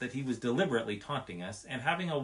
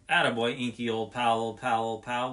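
louder cheering call; cried out; 6 dB louder than usual. A narrator's reading. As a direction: cheer him on as he comes down. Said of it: "we cried in chorus".

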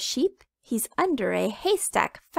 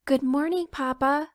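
little chicken voice; 5 semitones higher than usual. Acted. Chicken greets sleepy Papa.

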